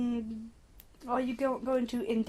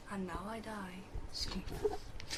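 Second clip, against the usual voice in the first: dramatic dying words; 8 dB quieter, much slower than usual. Retold or imitated.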